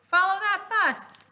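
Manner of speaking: high, loud teacher shout; excited teacher yelling. A narrator's reading. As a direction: call it out across the cave. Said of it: "Frizzy shouted".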